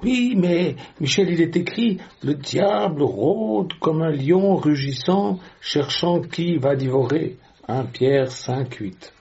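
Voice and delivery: imitating a believer protesting with a verse; mock pleading, starting high and settling toward the reference; insistent objector. Listener quotes scripture back at Michel, in mock protest.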